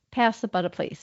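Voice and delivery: Australian trying American; attempted American accent. Shown as a demonstration. Student showing the dialect coach, attempted American accent. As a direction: have a tentative go at an American accent. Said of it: "So American first for you".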